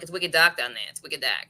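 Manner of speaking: put-on New England "wicked dark"; putting on accent. Shown as a demonstration. Showing what they occasionally throw in, light New England accent. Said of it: "I do the wicked dark thing".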